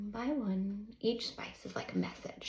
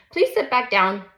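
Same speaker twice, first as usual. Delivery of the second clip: gentle but firm; 13 dB louder than usual. A narrator's reading. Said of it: "says it gently and firm".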